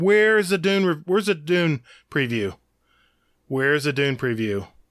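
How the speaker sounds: indignant, fed-up, angry outburst with swooping pitch. Retelling own complaint at the theater about a missing preview: imitating own angry complaint. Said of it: "I was so pissed".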